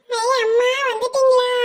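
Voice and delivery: put-on high, loud tearful child's cry of relief; crying shout. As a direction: shout to mother through tears. Child sees mother return. (அம்மாவை பார்த்து அழுதபடி கத்தும் குழந்தை)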